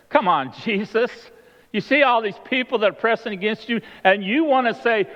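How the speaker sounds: high-pitched, exasperated objection; incredulous protest. Acted. Disciples point Jesus to the pressing crowd, incredulous. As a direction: protest as if the question were absurd.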